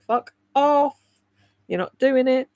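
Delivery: a mock-gruff voice of a fed-up body; body's voice. Her tired body refuses her head, mock-gruff put-on voice. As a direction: refuse flatly, as your own worn-out body. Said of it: "And your body's like".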